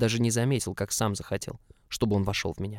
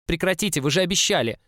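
higher, louder indignant plea; alarmed protest; 8 semitones higher, 5 dB louder than usual. A narrator's reading. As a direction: cry out in protest at a broken promise. Captive protests as he is dragged. (отчаянно протестуя, на повышенных тонах)

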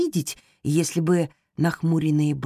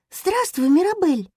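much higher gentle hamster greeting; tender, as to the sick; 12 semitones higher, 3 dB louder than usual. Acted. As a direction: soothe her like a patient. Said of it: "сказал Топинад нежным голосом". (нежно, как с больной)

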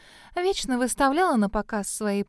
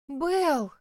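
from far below; 5 semitones higher than usual. A narrator's reading. Melanie answers from the bottom of the well. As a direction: sound far off and muffled. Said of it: "донеслось откуда-то с самого дна".

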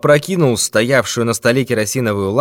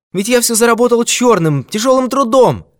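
much higher, quick frightened pleading; pleading old man; 12 semitones higher, 3 dB louder than usual. Acted. Old miser begs the thief for mercy, pleading. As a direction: beg him to believe it was a joke.

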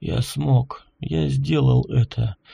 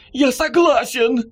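eager shout; 9 semitones higher than usual. A narrator's reading. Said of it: "крикнул Николай Иванович".

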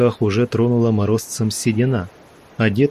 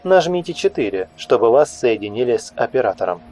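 higher automated menu voice; phone menu voice; 3 semitones higher than usual. Acted. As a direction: announce options like a recording. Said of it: "другой голос, более молодой и тёплый".

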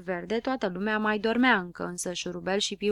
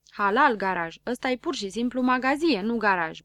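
grumbling; 2 semitones higher than usual. Acted. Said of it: "bombăni Șurubel".

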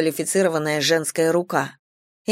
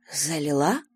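dry; 4 semitones lower, 5 dB quieter than usual. A narrator's reading. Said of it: "сухо переспросила Валя".

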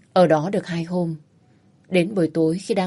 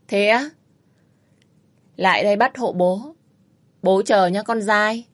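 a touch of mockery toward the bully; mocking taunt. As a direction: taunt him, daring him on. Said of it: "Viễn cười".

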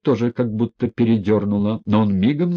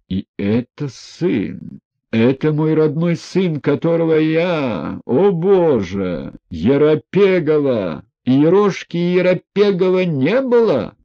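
put-on an outraged old general's cry, pitched high and loud; general shouting; 7 semitones higher, 4 dB louder than usual. A narrator's reading. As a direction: roar it in wounded disbelief. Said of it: "Генерал кричал в азарте".

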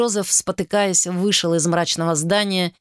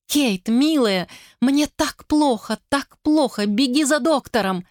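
pained pleading; 7 semitones higher than usual. Acted. Sick, frightened wife begging for doctor.

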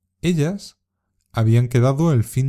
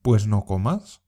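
"Pues no comas." with the stress on "no" and a rising end; dismissive reply. Shown as a demonstration. Teacher modelling a dismissive comeback for learners to imitate. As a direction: shrug it off, take it or leave it. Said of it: "Intenta imitar la entonación".

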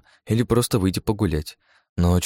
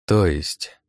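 cautious. Acted. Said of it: "осторожно уточнил я".

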